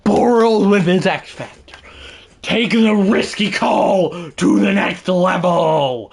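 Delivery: slow, weighty commentary; play-by-play announcer. Pretend. Streamer calling a risky two-point try, slow announcer delivery. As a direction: draw out the call for suspense.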